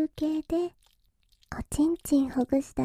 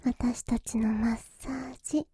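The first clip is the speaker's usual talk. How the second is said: whispering. Acted. Whispering massage girl.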